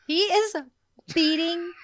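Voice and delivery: laughing through the word beating; breaking into laughter on beating. Real, not acted. Laughing mid-story.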